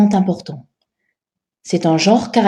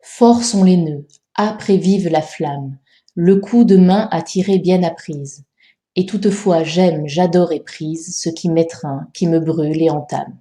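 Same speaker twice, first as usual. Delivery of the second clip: rhythmic scanned reading; 3 semitones lower than usual. Shown as a demonstration. Teacher giving the correction for the second quatrain, rhythmic scanned reading. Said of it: "Voici le rythme de ce deuxième quatrain".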